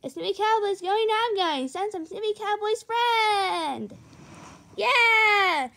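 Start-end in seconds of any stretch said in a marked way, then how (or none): 4.8-5.7 excited shout. Acted. Child excited for trip.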